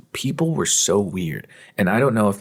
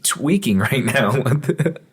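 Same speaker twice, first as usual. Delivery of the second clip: incredulous; 6 semitones higher than usual. Retold or imitated. Incredulous rant, high pitched.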